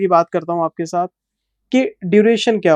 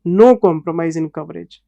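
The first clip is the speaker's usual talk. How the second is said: slow emphatic; 3 semitones lower, much slower than usual. Real, not acted. Stressing no cut in coverage.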